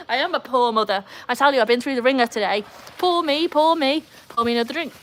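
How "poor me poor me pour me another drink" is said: high, hammed-up woe-is-me; mock self-pity. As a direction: playfully lament your own lot. Playing up being a poor mother.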